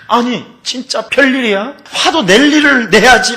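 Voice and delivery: normal talking voice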